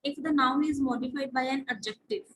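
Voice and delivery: slow, deliberate rule reading; dictation pace. Acted. Teacher reading out the next rule slowly to the class. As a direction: dictate the line slowly, word by word.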